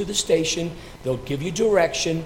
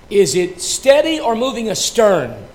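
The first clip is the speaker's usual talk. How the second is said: captain asking; 7 semitones higher, 6 dB louder than usual. Acted. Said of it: "the captain asked".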